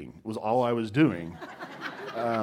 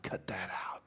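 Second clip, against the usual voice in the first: nearly whispered, much softer; hushed dismissal; 5 semitones lower, 13 dB quieter than usual. Acted. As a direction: drop to a furtive undertone. Acting out dismissing Jesus's hard sayings.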